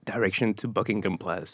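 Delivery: tentative attempt at a British accent; lightly put-on British English. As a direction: try asking in a British accent. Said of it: "in a British accent".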